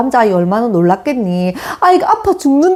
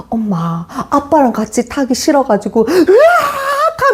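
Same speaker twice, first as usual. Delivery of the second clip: mock crying child; 4 semitones higher, slower than usual. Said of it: "흉내내더라고".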